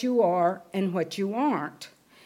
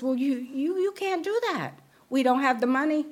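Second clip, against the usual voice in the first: higher, flustered mother saying no; mother refusing; 4 semitones higher than usual. Retold or imitated. Mother telling daughter they cannot afford college, higher and flustered. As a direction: stammer out the refusal as the worried mother.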